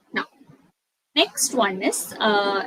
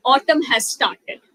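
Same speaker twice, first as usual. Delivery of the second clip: slow, careful example sentence; 3 semitones higher, 3 dB louder, slower than usual. Shown as a demonstration. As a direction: spell it out slowly for learners. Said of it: "British English-ല് autumn എന്നാണ് പറയുന്നത്".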